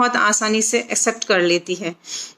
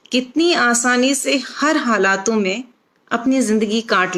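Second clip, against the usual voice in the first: measured, phrased verse reading with short pauses; expressive Hindi poem recitation; poetry recital. Acted. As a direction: recite it line by line, lifting each opening and letting the endings drop. Recites her own poem.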